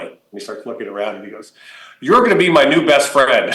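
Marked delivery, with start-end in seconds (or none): 2.0-3.5 put-on excited kid. Billy announces the friendship.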